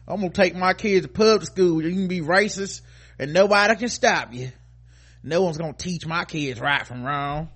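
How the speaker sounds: a hint of sneering imitation; mock indignant parent. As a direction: lightly act out a defiant parent. Mocking voice of racist parent.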